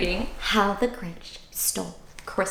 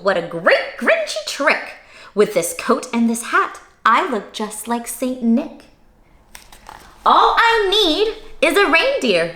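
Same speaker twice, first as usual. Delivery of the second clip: chuckling; 5 semitones higher than usual. Acted. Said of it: "he chuckled and cluckled".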